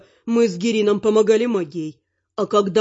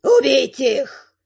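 slow, drawn-out villainous command; shouted order; 3 semitones higher, much slower than usual. A narrator's reading. Cloaked man ordering robbers to attack, shouting. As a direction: call out the order with menace, stretching each word. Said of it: "это крикнул не предводитель".

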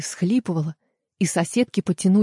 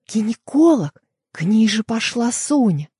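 higher, startled alarm; alarmed realisation; 4 semitones higher than usual. Acted. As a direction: it suddenly dawns on her. Sudden realisation, friend in danger.

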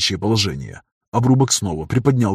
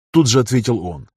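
usual speaking voice

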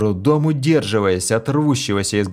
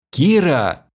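calling out; 7 semitones higher, 4 dB louder than usual. A narrator's reading. Hero calls out.

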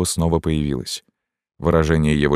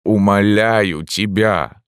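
медленный умоляющий выкрик; взмолиться громко и протяжно; пылкий вскрик; 5 semitones higher, 4 dB louder, much slower than usual. A narrator's reading. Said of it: "вскричал он". (страстная мольба священника)

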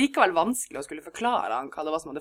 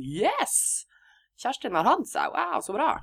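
etterlignet begeistring; 6 semitones higher, slower than usual. Retold or imitated. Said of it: "og var litt sånn".

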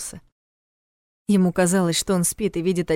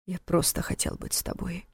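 pleading; 9 dB quieter than usual. Acted. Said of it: "послышалась мольба о прощении".

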